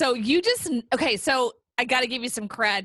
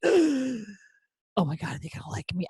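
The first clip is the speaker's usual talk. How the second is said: mock panic; slower than usual. Speaker imitates stage fright she never felt, anxious. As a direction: gasp then fret over being liked.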